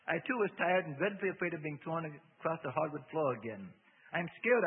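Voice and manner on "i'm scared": scared. A narrator's reading. Narrator voices own fear.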